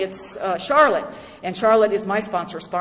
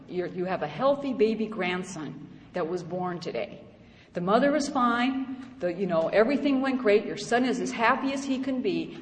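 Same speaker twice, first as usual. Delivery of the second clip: softer, gentle and loving, lightly imitated; a hint of a tender sponsor; 7 dB quieter than usual. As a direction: lovingly point out the good news. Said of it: "in her very, very loving voice".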